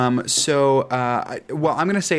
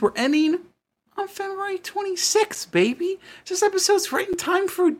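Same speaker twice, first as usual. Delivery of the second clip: sing-song. Acted. Sing-song hyped announcement.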